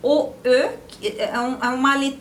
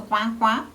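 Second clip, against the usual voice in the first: quá, quá like a quacking duck. Shown as a demonstration. Teacher joking that coin sounds like a duck. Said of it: "Parece um pato".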